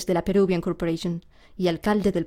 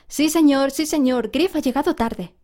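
put-on higher, louder children answering together; sing-song schoolroom chorus; class chorus; 6 semitones higher, 3 dB louder than usual. A narrator's reading. Pupils tell teacher Grieve was late, chorus. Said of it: "dijeron en coro".

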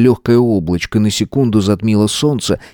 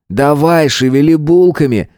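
higher-pitched, impatient prodding; hurrying; 5 semitones higher than usual. Acted. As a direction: urge them to get moving. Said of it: "поторопил Дмитрий".

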